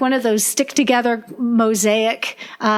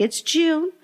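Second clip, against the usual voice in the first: laughing; 4 semitones higher than usual. Retold or imitated. Retelling a reply to a parent.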